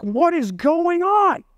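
high, slow, baffled "what is going on"; bewildered surprise. Retold or imitated. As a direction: stretch it out, totally confused. You're like.

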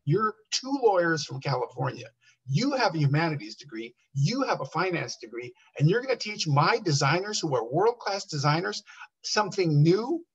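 sceptical client's challenge, pitch climbing; retold incredulity. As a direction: build in disbelief to a high questioning end. Client doubts the two lawyers, retold.

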